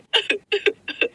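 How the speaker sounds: high, short sobs; acted sobbing. Beaten wife after begging for rescue, acted sobs. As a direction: sob like a woman being beaten.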